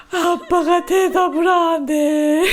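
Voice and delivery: put-on whiny child complaint. Mom laughing while imitating her son's sulk. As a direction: wail it like a hurt little boy.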